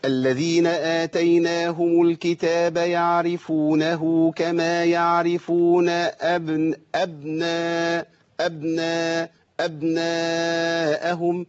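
slow recitation with أبناء's b not bounced; no qalqala. Shown as a demonstration. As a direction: recite slowly, keep the b flat. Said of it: "لو مش هقلقل هقولها كده".

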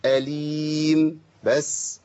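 أليم closed with a still, steady mim; correct ending. Shown as a demonstration. Teacher showing students how أليم should end. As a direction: hold أليم long without shaking the mim. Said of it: "هزيت الميم".

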